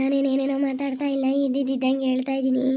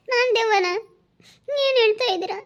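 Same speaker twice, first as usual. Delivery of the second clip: can't believe he said that; offended disbelief; 6 semitones higher than usual. Acted. Wife called a ghost by husband, shocked and offended.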